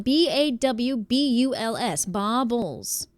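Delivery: "B A W B U L S" slowly letter by letter, then "baubles"; spelling out. Shown as a demonstration. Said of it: "She typed it out".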